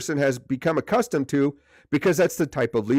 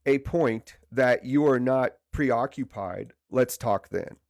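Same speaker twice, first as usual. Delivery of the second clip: polite request. Retold or imitated. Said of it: "very politely say".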